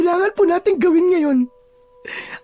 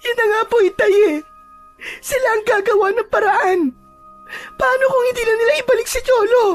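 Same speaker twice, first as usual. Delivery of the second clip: anxious, weepy mother; tearful crying; 4 dB louder, faster than usual. Acted. Daughter fears her son won't be returned, tearful and anxious. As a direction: fret through tears. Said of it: "Walang tigil ang pag-iyak ni Rosenda".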